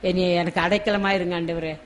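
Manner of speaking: softly spoken mock plea to God, only a touch tearful; tearful prayer, acted. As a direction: model a quiet, humble prayer. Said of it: "கண்ணீரோடு கேட்போம்".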